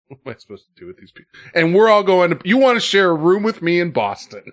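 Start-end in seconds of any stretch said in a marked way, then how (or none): 1.5-4.4 excited. Real, not acted. Teasing invite, excited.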